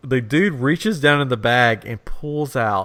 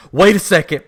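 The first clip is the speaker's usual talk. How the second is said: high, loud, slow melodramatic alarm; hammed-up indignant panic; mock freak-out; 6 semitones higher, 8 dB louder than usual. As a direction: imitate a lady aghast at a loss, drawing it out. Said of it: "she's freaking out about her biscuits".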